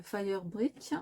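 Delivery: "Fire Brick" said with a light English accent; a playful touch of English accent on "Fire Brick". Shown as a demonstration. Crafter naming her ink with a mock English accent. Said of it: "avec mon bel accent anglais".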